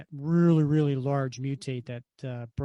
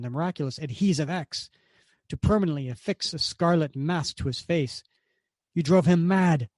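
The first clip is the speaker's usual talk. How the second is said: a touch of brooding menace, slowing at the end; lightly voiced bitter baron; bitter villain Zemo; 2 semitones higher than usual. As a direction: recount the past with simmering hatred. Zemo recounts his father.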